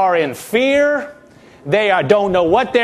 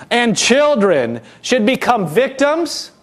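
high, slow whiny complaint; whining; 4 semitones higher, slower than usual. Retold or imitated. Preacher mimicking Israelites complaining, high slow whine. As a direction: stretch it out in a self-pitying whine. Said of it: "Can you hear the whine in their voice".

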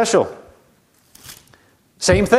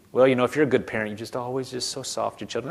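mock soft-parent voice; 3 semitones lower, 8 dB quieter, faster than usual. Mocking soft parent view.

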